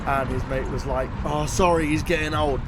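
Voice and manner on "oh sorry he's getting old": lightly imitated Spanish accent; a touch of Spanish accent, casual. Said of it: "but, like, in the Spanish accent".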